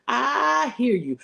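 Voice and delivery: I hear you stretched slow and lifted high; slow, high, sympathetic echo; drawn out high. Acted. Preacher repeating, drawn out.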